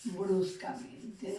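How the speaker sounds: bruscamente drawn out very slowly, syllable by syllable; slow demo word. Shown as a demonstration. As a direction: stretch out bruscamente so the class hears each syllable. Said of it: "me va a dar como resultado".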